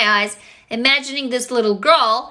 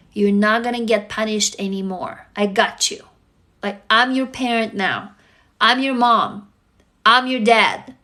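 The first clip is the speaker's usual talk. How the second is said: reassuring; 2 semitones lower than usual. Acted. Parent to frightened inner child, reassuring. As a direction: promise protection, gently firm.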